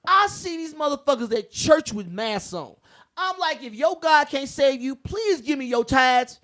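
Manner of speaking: high, loud, shouting at the top of his voice; fired-up rant. Real, not acted. Ranting to friends about masked churchgoers, shouting furious. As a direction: preach the outrage full force.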